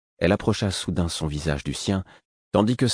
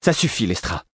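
mildly angry rebuke; understated scolding growl; growled warning; 3 semitones higher than usual. A narrator's reading. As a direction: cut her off sternly. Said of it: "gronda Eliania".

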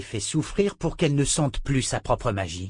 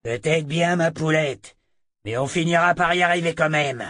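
leering thug; 5 semitones higher than usual. Acted. Thug voiced in story.

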